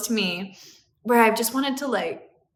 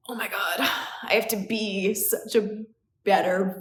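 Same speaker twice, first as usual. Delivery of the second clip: breath-only, whispered dismay; hushed, retold overwhelm; overwhelmed gasp. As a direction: whisper it as if daunted.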